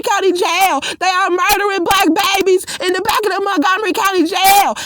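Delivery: mild mock yell, building toward the end; steady, insistent calling out of her name; retold scream. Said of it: "I started to scream".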